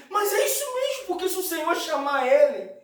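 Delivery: high, emphatic sermon voice; impassioned preaching. Acted. Preaches at full force. (pregação fervorosa, voz elevada)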